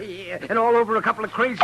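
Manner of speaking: chuckling through the words; laughing while talking; amused laugh. Acted. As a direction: laugh it off, teasing the marshal. Doctor amused by the feud.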